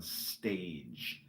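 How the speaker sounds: hammed-up thespian, slowing into drawn-out words; theatrical gusto. Shown as a demonstration. Host coaching a shy reader to act like a thespian, theatrical. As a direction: lightly ham it up like a stage actor. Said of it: "read it with some gusto".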